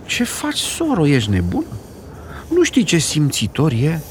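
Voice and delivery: put-on high, shocked old woman; scolding grandma. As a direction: defend the sensitive grandson.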